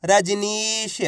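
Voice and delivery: रजनीश with a long held नी; syllables blended slowly. Shown as a demonstration. Teacher joining letters into a word, रजनीश stretched out. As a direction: draw out the ee inside रजनीश. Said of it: "तो मिलके बन जाएगा".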